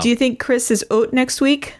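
put-on playful Canadian accent with "oat" for "out". Podcaster imitating contestants gossiping about Chris, Canadian accent. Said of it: "try and do a Canadian accent".

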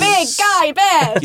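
high, slow, gushing; proud cheer. Acted. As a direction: say it like cheering on a toddler. Proud mom repeats phrase.

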